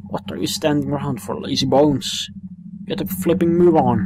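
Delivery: cheeky sidekick hurrying them along; nagging sidekick. Acted. Sidekick nagging the boy to hurry, cheeky. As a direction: chivvy them on, mock impatient. Drippy nags.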